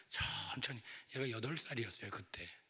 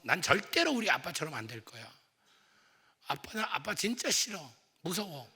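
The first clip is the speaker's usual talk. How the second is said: imagined resentful son; 4 semitones higher, 5 dB louder than usual. Retold or imitated. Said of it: "그랬을 거예요".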